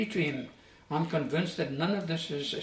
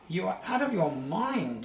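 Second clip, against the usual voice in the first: shout; 4 semitones higher than usual. Acted. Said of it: "he shouts to him".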